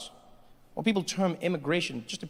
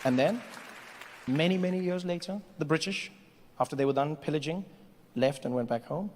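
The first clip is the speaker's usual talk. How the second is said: measured storyteller with long pauses; mock-historical narration; story narration. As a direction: tell it as solemn history, phrase by phrase.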